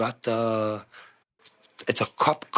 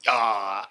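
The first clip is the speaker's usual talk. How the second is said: drawn-out mock "aah" of pain; imitated pained groan; 2 semitones lower than usual. Drunk friend has hurt his ankle jumping, mock pained groan.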